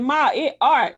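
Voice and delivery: dropped S in "it", leaving "Ma, it art"; Mercedes. Retold or imitated. Friend mimicking a show's Southern line, S dropped from "it". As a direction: say "Ma, it art" with a bare T ending "it". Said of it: "when Mercedes said".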